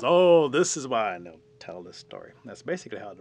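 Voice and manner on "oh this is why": big drawn-out "oh", loud and slow; loud, higher, stretched-out opening; storyteller's answer. Acted. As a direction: launch into the explanation with relish.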